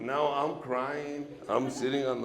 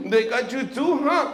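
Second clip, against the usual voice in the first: louder, laughing through it; laughing question; 9 semitones higher, 10 dB louder than usual. Retold or imitated. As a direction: crack up while asking. Laughing at drunk dad.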